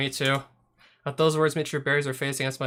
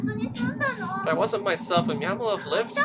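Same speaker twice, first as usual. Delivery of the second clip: put-on grieving girl; 13 semitones higher than usual. Michiru asking Yuji if her being there killed the cat, lightly voiced distraught girl. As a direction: ask it like a girl coming apart over her cat.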